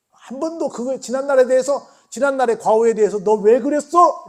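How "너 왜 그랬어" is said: loud, slow, high blame; accusing reproach. Retold or imitated. Jesus imagined blaming Peter, loud slow reproach. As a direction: drag out the accusation. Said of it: "되짚으신 적이 없으세요".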